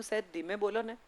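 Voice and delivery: put-on hushed plea, not wanting to wake sleeping kids; quietly asking noisy strangers to tone it down; polite soft request. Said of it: "એટલે મેં એમને કહ્યું".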